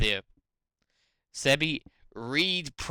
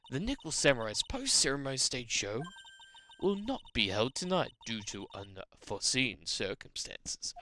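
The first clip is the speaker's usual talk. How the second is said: ordinary talk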